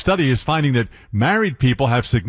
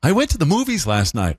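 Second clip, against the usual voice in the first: put-on baby talk; 4 semitones higher than usual. Shown as a demonstration. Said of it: "sometimes it was said in baby talk".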